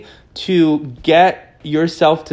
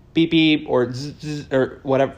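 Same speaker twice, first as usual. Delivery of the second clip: phone notification noises. Retold or imitated. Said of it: "Wow, that was good".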